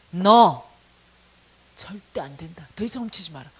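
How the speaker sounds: stern inner voice, dropping to a low whisper; a hushed solemn warning from the Spirit. Retold or imitated. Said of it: "성령이 저의 양심을 가지고 말씀하기". (양심에 말씀하시는 성령의 엄한 속삭임)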